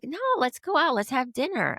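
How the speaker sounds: high-pitched, pushy retold plea; insistent friend. Friend pressing her to go to dinner, insistent. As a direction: imitate a friend overruling the plan.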